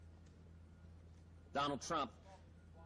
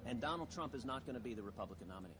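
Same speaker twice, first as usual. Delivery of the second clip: low, quick and softer; quick, low statement; 4 semitones lower, 5 dB quieter, faster than usual. Real, not acted. First statement of the prediction.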